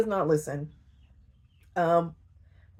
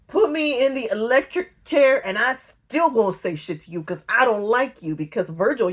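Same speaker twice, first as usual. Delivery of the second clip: defiant; 3 semitones higher, 5 dB louder than usual. Retold or imitated. Defiant refusal to snitch.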